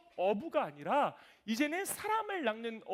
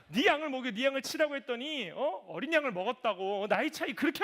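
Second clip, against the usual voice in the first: teasing pastor; 3 semitones higher, 6 dB louder than usual. Retold or imitated. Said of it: "가장 많이 욕하셨던".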